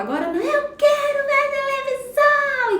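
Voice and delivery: put-on high, shrill-pitched demanding yell from a small child. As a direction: scream it like a kid denied TV. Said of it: "E começa a gritar".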